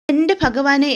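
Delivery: mild retold shock at bad news; shocked gasp. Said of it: "ഞെട്ടി നിൽക്കുകയാണ്". (ഞെട്ടലോടെ)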